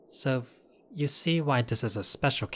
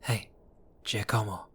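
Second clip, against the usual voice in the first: normal talking voice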